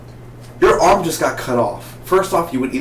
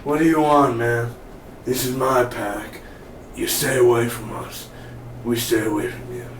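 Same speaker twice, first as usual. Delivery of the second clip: lightly put-on survivor badass; mock-tough apocalypse threat; apocalypse tough-guy voice; 4 dB quieter than usual. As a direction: warn strangers off your pack, deliberately. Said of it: "That's how I would talk in the apocalypse".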